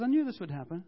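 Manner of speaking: hammed-up grumble of a prophet who saw it coming; ticked off. Jonah complaining to God that he knew it, mock annoyed. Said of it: "And he's so ticked off".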